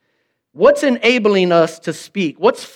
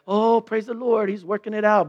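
softer, sing-song praise the Lord with a sigh; Christian complaining; 2 semitones higher, 5 dB quieter than usual. Retold or imitated. Pastor mocking his own pious complaining, sing-song and softer. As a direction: complain piously under a smile. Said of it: "complain in a Christian kind of way".

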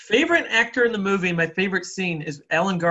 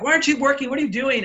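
mock-angry boss, higher and louder; pissed-off boss; 7 semitones higher, 4 dB louder, faster than usual. Boss catches his waiter sitting down, mock-angry. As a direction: imitate an exasperated boss scolding. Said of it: "he's totally pissed off".

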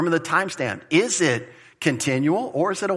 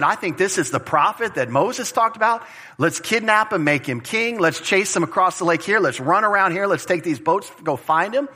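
lightly acted excitement, higher pitch; mock eagerness, rallying others; eager crowd; 4 semitones higher than usual. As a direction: voice a crowd urging each other on. Voicing the eager crowd chasing Jesus.

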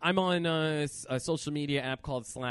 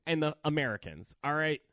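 fired-up angry tirade; real rant. Real, not acted. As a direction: scold the Canadians like you mean it. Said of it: "You got really mad about that just now".

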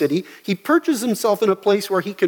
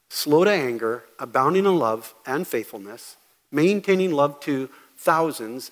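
solemn proclamation; 3 semitones lower than usual. Retold or imitated. Preacher reading God's words to Moses, reverently. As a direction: proclaim each name of God with weight. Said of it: "And this is how he says it".

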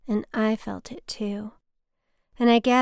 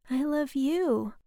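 tearful; 5 semitones higher, slower than usual. Retold or imitated. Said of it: "She was crying by this point".

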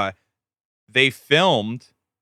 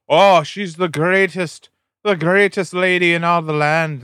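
high, slow mock gushing praise; gushing cardinals; 6 semitones higher, 4 dB louder than usual. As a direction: gush like a fawning cardinal. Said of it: "cardinals in England and Ireland are just".

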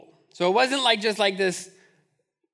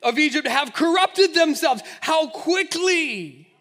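higher, louder, laughing blame; exasperated God; 6 semitones higher, 5 dB louder than usual. Retold or imitated. God telling Moses the people are his, mock exasperated. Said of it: "He says".

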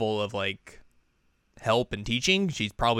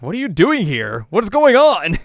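high, loud baffled demand; acted-out shock at a surprise arrival; startled; 9 semitones higher, 9 dB louder than usual. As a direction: build to a high-pitched cry of disbelief. Acts Chisato startled by arrival.

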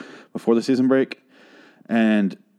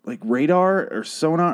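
incredulous reaction; 5 semitones higher than usual. Retold or imitated. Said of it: "I'm like".

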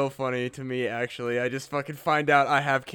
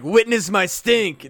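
grand proclamation; 4 semitones higher, 6 dB louder, slower than usual. Pretend. Imagined speech at the UN.

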